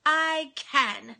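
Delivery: Actually, rising, then a firm I can; confident mirror affirmation; bold affirmation. Shown as a demonstration. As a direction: say it like you mean it. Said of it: "say it with as much boldness".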